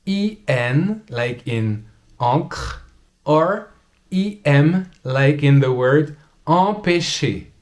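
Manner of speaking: an, ampoule, encre, empêcher said slowly with nasal an; slow textbook pronunciation. Shown as a demonstration. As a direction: hold the nasal an in each word. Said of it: "Then you have the sound".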